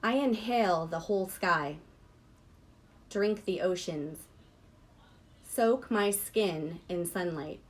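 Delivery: measured recital with a pause after each line; deliberate poetry-reading voice. Real, not acted. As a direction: read it as verse, giving every image room.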